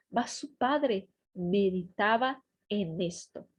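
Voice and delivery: slow, measured Spanish Bible narration; scripture read-aloud. Acted. Teacher reading Joseph's dream to Spanish learners, measured narration. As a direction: read the story aloud in Spanish, unhurried, phrase by phrase.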